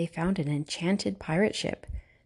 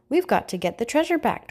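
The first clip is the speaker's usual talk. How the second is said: urgent exclaim, higher; 6 semitones higher than usual. A narrator's reading. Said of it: "Dora exclaimed".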